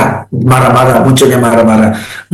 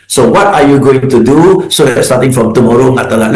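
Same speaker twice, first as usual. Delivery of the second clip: calm problem-focused boss; 4 semitones lower than usual. Shown as a demonstration. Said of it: "Let's focus on the solution".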